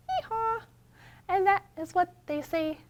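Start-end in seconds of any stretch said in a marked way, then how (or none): 0.1-0.6 high "Hee-haw" bray; donkey bray. Shown as a demonstration. Librarian models the donkey's hee-haw. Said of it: "Can you hee-haw like a donkey?".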